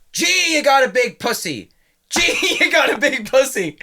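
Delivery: high slow doctor voice, said twice like an echo; gynaecologist echoing. Acted. Doctor in the joke calling out, repeated as an echo. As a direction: play the doctor, then echo the line. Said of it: "it was the echo".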